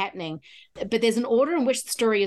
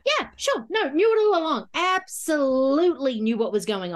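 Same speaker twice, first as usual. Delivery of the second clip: mock pretending to know; 4 semitones higher than usual. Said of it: "you're just like going".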